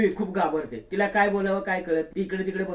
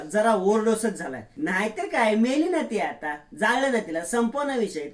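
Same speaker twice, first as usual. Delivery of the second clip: scheming daughter-in-law; 3 semitones higher than usual. Acted. Priya sneering to her husband, lightly voiced scheming woman.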